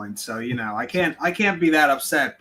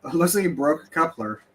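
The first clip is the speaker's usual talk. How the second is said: sounds underwater, muffled mic; talking through a muffled mic; 3 semitones higher than usual. Real, not acted. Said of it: "John, you're muffled bad".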